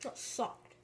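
whispered aside. Real, not acted. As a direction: breathe it out, unvoiced. Quiet aside after crackers.

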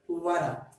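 what are run together as wadar; linked flap T. Shown as a demonstration. Teacher showing how what are sounds in American speech. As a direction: link what are with a quick tap. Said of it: "sound like".

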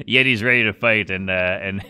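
laughing through the words; cracking up while talking. Real, not acted.

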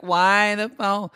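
mock crying. Girlfriend upset about the phone, mock crying. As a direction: imitate her tearful complaint, stretching it out. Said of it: "She's crying. She's like".

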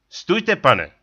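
hlasité zvolání, výš. A narrator's reading. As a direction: zavolej ostře na cizince. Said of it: "zvolal na mě Tlouštík". (hlasité zvolání na cizince)

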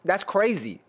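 excited voice cracking up; voice breaking. Real, not acted. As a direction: voice cracks on the word. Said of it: "you hear my voice break just now".

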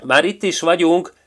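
the cheetah arriving panting. A narrator's reading. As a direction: gasp it out after the sprint. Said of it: "lihegte Gepárd Dezső".

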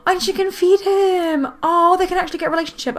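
high, excited squeal of discovery; delighted. Real, not acted. Player seeing she can feed her brother, squealing happily. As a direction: squeal it as good news dawns.

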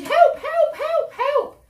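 high, loud cries of help; shouting for help. Acted. Girl fleeing the wolf, loud cries for help. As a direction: call out as if in danger. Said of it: "she shouted".

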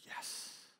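whispered, barely voiced answer; hushed reply. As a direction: let it out as a soft, awed whisper. Retelling Boaz's solemn answer.

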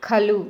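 ఖలు with a strong breathy ఖ; aspirated kha. Shown as a demonstration. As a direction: push air on ఖ in ఖలు. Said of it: "ఖా ఒత్తు ఖా ఉంది". (ఖలు ఒత్తు ఖ తో)

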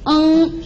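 ng as a held level nasal hum; nasal final. Shown as a demonstration. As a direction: hum ng from throat and nose. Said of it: "with the final we just studied".

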